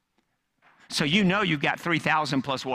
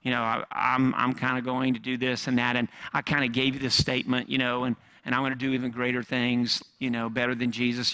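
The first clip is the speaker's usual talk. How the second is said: mock vague boast; 4 semitones lower than usual. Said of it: "if I just walked in one day and just said".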